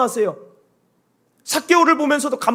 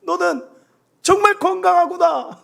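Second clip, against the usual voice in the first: put-on higher, fond praise of the child; praising child; 9 semitones higher, slower than usual. Shown as a demonstration. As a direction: admire the kid tenderly. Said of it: "안아주면서". (아이를 안고 대견하게 칭찬)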